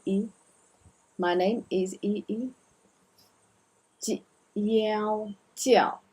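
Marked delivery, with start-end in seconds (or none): 4.0-6.0 叫, jiao jiao, slow and clear; slow model of 叫 jiao; model word. Shown as a demonstration. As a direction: say 叫 jiao slowly twice. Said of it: "this word 叫".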